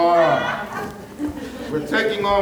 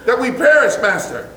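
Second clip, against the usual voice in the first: frantic cries louder and higher, half laughing; panicked shouting; 6 semitones higher, 5 dB louder than usual. Acted. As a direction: yell to wake the sleeping master in a storm. Acted disciples panicking in storm.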